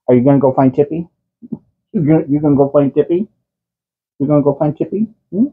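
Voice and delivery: high, quick coaxing question; pet talk. Real, not acted. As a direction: tease the cat playfully. Dad asks cat, fast.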